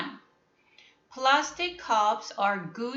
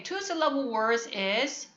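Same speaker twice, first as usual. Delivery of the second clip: usual speaking voice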